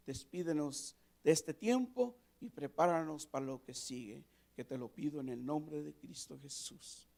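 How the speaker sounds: earnest prayer voice; heartfelt congregational prayer; closing prayer. Acted. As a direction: pray it with steady devotion.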